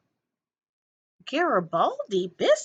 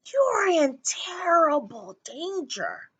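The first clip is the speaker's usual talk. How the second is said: higher, portentous warning; higher, hammed-up dire warning; ominous high old lady; 8 semitones higher than usual. A narrator's reading. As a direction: pronounce doom like a stage seer. Ominous tea leaf reading.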